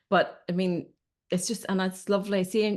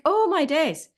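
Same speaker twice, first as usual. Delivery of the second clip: mock exasperation, much higher and louder; a hammed-up, overwhelmed sigh of disbelief; exasperated exclaim; 11 semitones higher, 6 dB louder, slower than usual. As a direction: throw up your hands, oh my days. Mock reaction to clingy partner.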